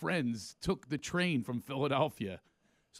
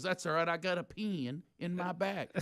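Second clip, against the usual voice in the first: southern golfer; 2 semitones higher than usual. Retold or imitated. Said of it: "The guy goes".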